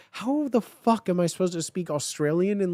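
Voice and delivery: ordinary delivery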